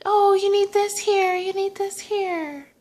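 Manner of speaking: high-pitched imitation of a helpful old lady; little old lady. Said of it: "The little old lady helps me".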